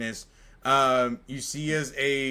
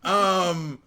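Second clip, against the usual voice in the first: higher, flustered little imp voice; Pip the imp; 7 semitones higher, 5 dB louder than usual. Acted. GM voicing Pip to the party, flustered and higher. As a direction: babble it, caught dripping and embarrassed.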